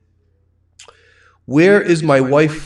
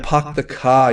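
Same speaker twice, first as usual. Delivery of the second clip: Rhode Island accent. Shown as a demonstration. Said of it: "I have a Rhode Island accent".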